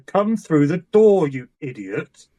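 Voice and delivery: slow, exasperated holler; acted call. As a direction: yell through a doorway, then drop on the insult. Player shouts through door in character.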